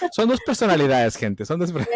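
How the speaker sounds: playful exclamation. Real, not acted. Joking about podcast personalities.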